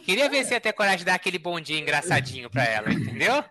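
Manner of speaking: words bubbling with light laughter; laughing. Real, not acted. Cohost finishing his boxer joke, still laughing. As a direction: keep chuckling as you finish the joke.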